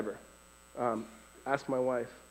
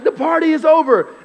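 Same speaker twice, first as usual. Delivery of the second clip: high, loud preacher voice at normal speed; preacher's punchline; 13 semitones higher, 14 dB louder than usual. Retold or imitated. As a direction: hit it straight like the repeated refrain. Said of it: "That's just not how he did it".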